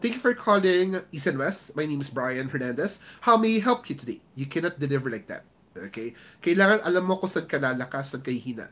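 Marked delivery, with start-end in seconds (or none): 0.0-4.2 monotonous delivery. Shown as a demonstration. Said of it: "can't deliver it as in a monotonous tone".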